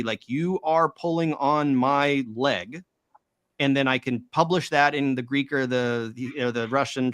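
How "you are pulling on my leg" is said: slow, word-by-word literal rendering; stilted literal translation. Shown as a demonstration. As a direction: say it slowly like a clumsy word-for-word translation. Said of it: "render it literally".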